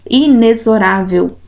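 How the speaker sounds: inexorável with the x said as z; careful inexorável, x buzzing like a z; inexorável with Z sound. Shown as a demonstration. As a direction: say inexorável as i-ne-zo-RÁ-vel. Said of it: "é o som de Z".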